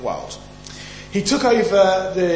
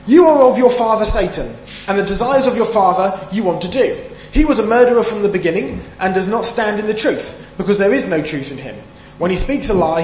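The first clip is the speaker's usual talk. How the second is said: forceful scripture reading; 3 semitones higher, 5 dB louder than usual. Acted. Reading Jesus' words with force.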